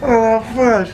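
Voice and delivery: gasping in the freezing cryo chamber; shocked by the cold, half laughing; in ice cold water. Real, not acted. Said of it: "C'est super froid".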